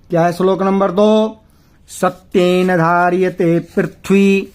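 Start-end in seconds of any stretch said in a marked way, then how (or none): 1.9-4.5 slow Sanskrit chant; shloka recitation. Shown as a demonstration. Teacher reciting the second verse to students, slow chant. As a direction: intone each word evenly.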